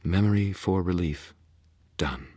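purring. Acted. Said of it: "Leah purred".

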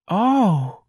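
high, drawn-out sighing oh; stagey high-pitched sigh. A narrator's reading. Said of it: "and sighed".

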